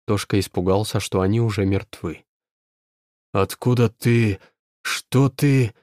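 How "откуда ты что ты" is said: грозный низкий рык чудовища; прогреми как живой мертвец; громовой голос мертвеца. A narrator's reading. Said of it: "прогремел голос живого мертвеца". (громовой голос мертвеца)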